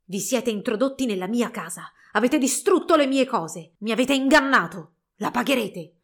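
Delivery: accusa che monta, più forte, poi cala in minaccia; minaccia rabbiosa. Acted. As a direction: sfoga la tua vendetta. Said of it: "si udì un urlo rabbioso". (Coppelius alle nozze contro gli sposi, rabbia crescente)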